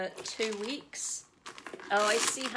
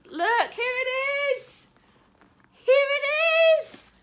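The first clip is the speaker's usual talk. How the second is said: very high, loud squeal of excitement; excited shrieking; 9 dB louder, slower than usual. Real, not acted. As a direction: shriek it, drawing out the last words. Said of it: "neighbours can probably hear me through the wall".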